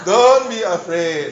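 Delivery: gentle comfort. Acted. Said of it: "repeats comfort".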